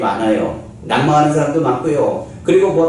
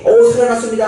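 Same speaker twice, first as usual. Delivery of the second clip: higher, brighter exclaimed claim; mock announcement; 8 semitones higher, 4 dB louder than usual. A person telling people someone came back to life, excited. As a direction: announce it like eager hearsay. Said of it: "그냥 사람들에게".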